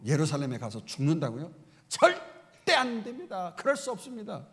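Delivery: the preacher plays Peter scolding Jesus in anger; Peter's angry protest. Retold or imitated. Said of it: "마구 항변하면서 화를 냈다는 거예요".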